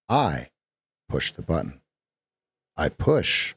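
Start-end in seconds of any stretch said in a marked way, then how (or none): 0.1-1.8 I, pause, button stressed low and soft. Shown as a demonstration. Coach shows stress on button. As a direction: lean on button. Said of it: "we could put an emphasis on any syllable".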